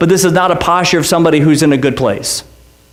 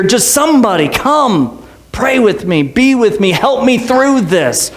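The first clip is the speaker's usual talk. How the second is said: raised, earnest plea for company; pleading for help; 5 semitones higher than usual. Acted. Pastor voicing a hurting believer asking friends for help. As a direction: beg friends to come and pray.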